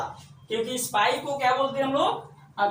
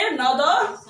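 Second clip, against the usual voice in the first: slow spelling out; slower than usual. Shown as a demonstration. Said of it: "क्या बोलेंगे?".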